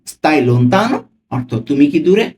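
stai lontano and দূরে said slowly, each ending on a rising question tune; question intonation. Shown as a demonstration. Teacher showing the style of asking, rising question tune. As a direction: let দূরে lift upward like a real question. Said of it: "প্রশ্ন করার স্টাইলটা দেখুন".

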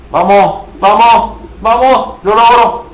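rally yourself, push through; triumphant gamer shout; excited cheering. Real, not acted.

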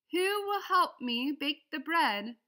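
a small hen asking sweetly for help; hopeful hen asking. A narrator's reading. The little red hen asking who will bake, high and slow. Hen asks helpers, reading to children.

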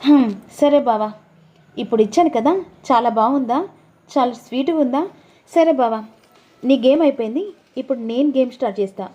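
coy and teasing about the photos; voiced wife. Wife retorts after slap.

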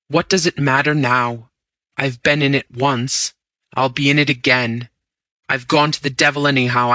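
swept up in feverish resolve; reckless vow. Acted. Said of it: "I cried with an oath".

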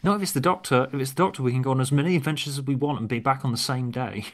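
put-on Australian accent, then Ace's reply. Script dialogue, Tegan and Ace.

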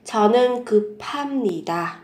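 급합니다 linked, with an aspirated "p"; nối âm. Shown as a demonstration. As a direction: say 급합니다 as "geu-pham-ni-da". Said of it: "đọc nối lên thành âm". (급합니다 nối âm bờ và hờ thành âm bật hơi)

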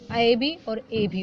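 slow demo, first ऐ as "ae", then ए as plain "e"; slow teacher demo contrasting ऐ and ए; two ways to say it. Shown as a demonstration. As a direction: say ऐ with an open "ae", then ए as a clean "e". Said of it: "उसको ऐ भी बोलते हैं और ए भी बोलते हैं".

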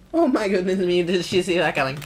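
loud, high exclamation; acted shock. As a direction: cry it out in mock astonishment. Acted shock of game character.

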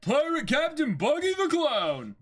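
high, loud, proud pirate cheer; rallying crew shout. Acted. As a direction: bellow the captain's name like a devoted crewman. Crew answers captain.

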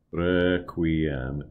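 "Requiem" with a light tapped R; flipped R. Shown as a demonstration. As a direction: tap the R gently. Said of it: "give a gentle flip to all of the R's".

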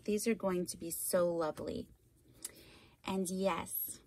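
ordinary delivery

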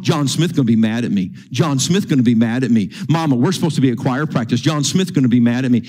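imitating a fretful nag, fast and repetitive; pestering kid. Boy bugging his mama about choir practice, pestering. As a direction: rattle it off as insistent nagging. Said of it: "He bugs her".

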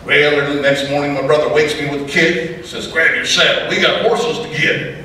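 rhythmic storytelling poem; poem recitation. Acted. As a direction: recite it like a campfire poet. Recites second cowboy poem.

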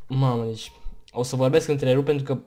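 ordinary talk

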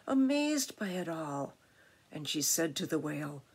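gentle, lilting rhymed reading; picture-book narration. A narrator's reading. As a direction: read to children with wonder. Reads picture book aloud.

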